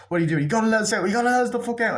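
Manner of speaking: high-pitched imitation of a panicked character; mock frantic demand. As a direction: retell her urgent plea, pitched well up. Acted plea of trapped movie character.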